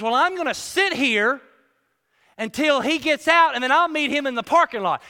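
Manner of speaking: loud, pushy threat; threatening. Retold or imitated. Ex-con pressing the secretary, loud menacing threat. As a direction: lean on her, menacing.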